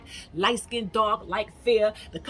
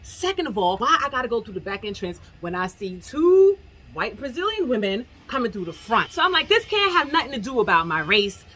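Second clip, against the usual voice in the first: louder, indignant confronting the doorman; retelling a heated argument with the doorman; heated retold argument; 4 dB louder than usual. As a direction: argue back, fed up and loud.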